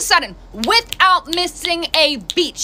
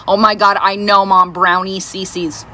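slow, dragging mock-annoyed "Brownie C Cs"; bored eye-roll; 5 semitones lower, slower than usual. Mom imitating her daughter bored of the story. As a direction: drawl it like you've heard it a hundred times.

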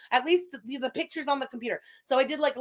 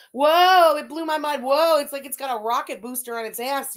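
amazed whoa; 6 dB louder than usual. Real, not acted. Amazed at fast internet.

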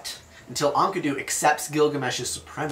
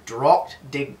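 French pronunciation; slower than usual. Shown as a demonstration. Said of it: "This is a French term".

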